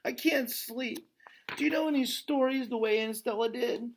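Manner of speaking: a sleepless little one asking for a story; little elephant Ruby. Acted. Young elephant asks Ivan for a story, high child voice.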